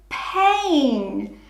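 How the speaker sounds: pain said blended as one word. Shown as a demonstration. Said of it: "Let's do it together".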